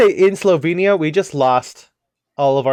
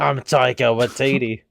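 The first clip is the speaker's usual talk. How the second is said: put-on accent leaning into Cockney; half-Cockney mock introduction; Taika Waititi; 2 semitones lower than usual. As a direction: lightly mimic a director, drifting towards Cockney. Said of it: "like, Cockney at that point".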